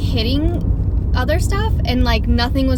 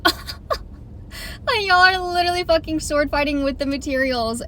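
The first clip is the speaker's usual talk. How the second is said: retold disbelief squeezed through laughter; stifled laughter; 4 semitones higher, 3 dB quieter than usual. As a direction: act out struggling not to crack up. Stifled laughing reaction in dentist chair.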